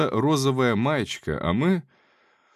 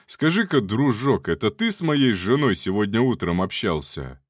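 rough male voice. Acted. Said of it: "грубый мужской голос".

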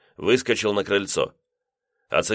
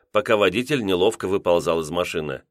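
usual speaking voice

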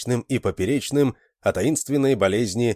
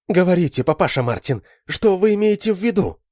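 high, loud, demanding; urgent exclamation; 10 semitones higher, 4 dB louder than usual. A narrator's reading. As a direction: Adele grabs his hand and demands. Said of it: "воскликнула Адель". (Адель требует ответа, громко)

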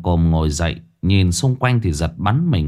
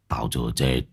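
lower, weary growl, then a short shout; irritated, worn-out old man; gruff old man; 9 semitones lower than usual. Acted. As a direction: snap at her to shut up. Exhausted old man snaps back.

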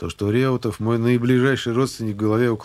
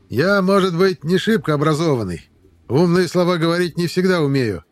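shouting drill sergeant; 3 dB louder than usual. Acted. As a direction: lecture the lined-up recruits. Sergeant lectures recruits.

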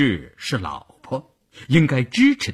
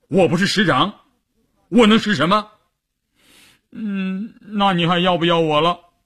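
sobbing; 6 semitones higher than usual. Acted. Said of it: "一边哭一边抽打着说".

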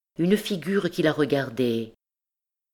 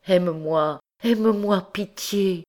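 higher, desperate plea, lightly raised voice; crying out; 6 semitones higher than usual. A narrator's reading. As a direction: beg for pity with a mild narrated cry. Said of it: "criait le pauvre prêtre".

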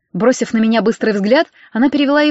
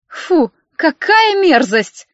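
higher, very slow squeamish drawl; disgusted; 6 semitones higher, much slower than usual. A narrator's reading. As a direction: recoil from the underwear in disgust. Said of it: "брезгливо кинула". (брезгливо, с отвращением)

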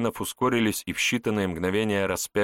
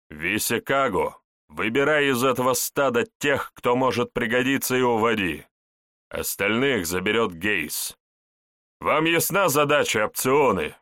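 commanding orders; 3 semitones higher than usual. Acted. Centurion gives orders.

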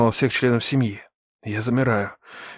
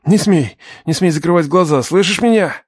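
higher, insistent command; urgent plea; 4 semitones higher, 4 dB louder than usual. Acted. Man orders wounded girl to stay conscious, urgent plea. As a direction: insist anxiously, don't let her slip away.

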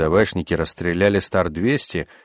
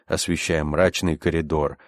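usual speaking voice

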